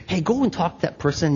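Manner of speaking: softly voiced prompting, acting out God's whisper; quietly urge, just short of a whisper; gentle whispered nudge. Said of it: "he whispers".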